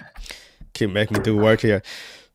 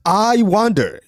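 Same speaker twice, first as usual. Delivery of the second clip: "I" hit higher to set it against "You"; stress on I; 7 semitones higher, much slower than usual. Shown as a demonstration. Contrasting the two verse readings, stress on I. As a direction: lean on "I" to show the words differ. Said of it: "The other one says".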